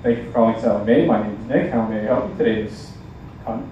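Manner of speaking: quick, polite phone script; brisk polite agent. Retold or imitated. Agent greeting a customer with a rude name, briskly. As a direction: rattle off the script, then drop it. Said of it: "I was like".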